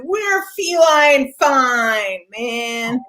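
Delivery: lightly voiced drunk, slow and drawn out; tipsy cats. Swaying cats answering the bartender, mildly tipsy. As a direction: stretch it out with a touch of drunken swagger. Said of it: "they're swaying a little bit".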